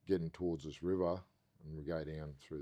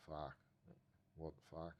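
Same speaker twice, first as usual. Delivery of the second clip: softer, muttered disbelief; hushed disbelief; 10 dB quieter than usual. Retold or imitated. Spinning out in the car, muttering in hushed disbelief. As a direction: mutter it, stunned.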